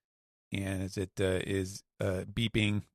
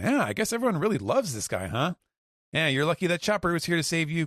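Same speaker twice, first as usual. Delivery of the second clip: Luffy musing; 9 semitones higher, 4 dB louder, faster than usual. Retold or imitated. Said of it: "Luffy's thinking".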